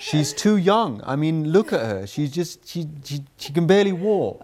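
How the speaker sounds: hint of a disbelieving viewer scoffing at the idea; mock skeptical viewer. Father voicing imagined viewers, lightly mocking and doubtful. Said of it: "what some of you might be thinking".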